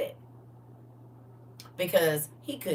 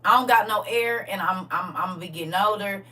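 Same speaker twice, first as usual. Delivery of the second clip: pleading king voice; 3 semitones higher, 4 dB louder than usual. Retold or imitated. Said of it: "and said".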